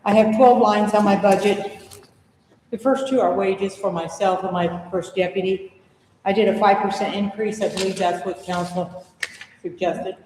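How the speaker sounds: out of breath from the stairs; winded, still catching breath. Real, not acted. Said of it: "Sorry, I'm catching my breath".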